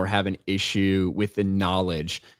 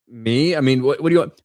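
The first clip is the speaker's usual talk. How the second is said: ordinary delivery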